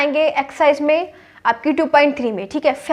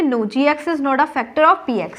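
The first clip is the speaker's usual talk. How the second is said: slow, spaced answer for students to copy; slow dictation; much slower than usual. Shown as a demonstration. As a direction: dictate it word by word. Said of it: "तो क्या बोलेंगे". (धीमी आवाज़ में लिखवाना)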